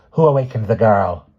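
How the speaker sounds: indignant question; angry scolding. A narrator's reading. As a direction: scold them as an angry old woman. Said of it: "she scolded angrily".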